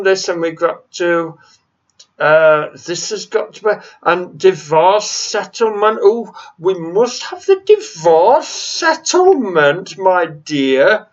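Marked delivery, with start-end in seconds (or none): 6.0-11.1 a put-on, condescending voice with a touch of the aristocrat; mock EU negotiator. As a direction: demand it like a smug official. Mocking EU negotiators' demand.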